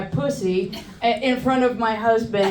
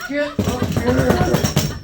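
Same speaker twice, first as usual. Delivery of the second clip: slow demand; 2 semitones higher, 4 dB louder, much slower than usual. Retold or imitated. Horny pregnant demand.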